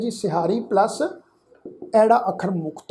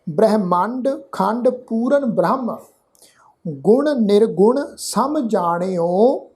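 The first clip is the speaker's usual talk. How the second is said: slow, measured verse with drawn-out vowels; scripture recitation; slower than usual. Shown as a demonstration. Teacher reciting Gurbani to the congregation, slow measured recitation. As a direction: recite each phrase slowly, pausing between.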